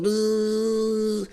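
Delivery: a thin buzzing fly noise through the lips. Retold or imitated. To himself, a fly pesters him over his Big Mac, buzzing sound. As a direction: buzz like a pesky little fly. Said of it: "A little buzzy fly was like".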